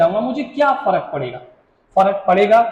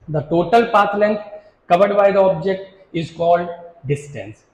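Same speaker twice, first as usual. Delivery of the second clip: very slow, word by word, pause before the last word; slow dictation; much slower than usual. Shown as a demonstration. Teacher dictating the definition to students, slow and spaced. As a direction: spell it out for notes, slowly.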